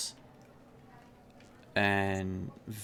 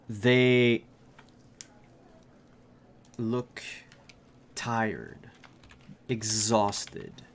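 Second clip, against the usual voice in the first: measured narration, phrases left hanging; storyteller unveiling the scene piece by piece; game master's scene setting. A narrator's reading. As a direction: describe the scene with deliberate pauses.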